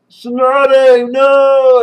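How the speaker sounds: hammed-up dramatic yell; mock cry out. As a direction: call out to the fallen ally in alarm. Hokage cries out for Tsunade.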